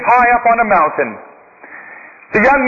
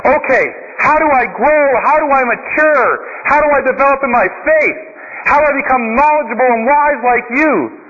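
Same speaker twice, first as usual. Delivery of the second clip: put-on higher, pleading young man; eager young seeker; 3 semitones higher than usual. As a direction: beg the monk for the answer. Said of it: "the young man".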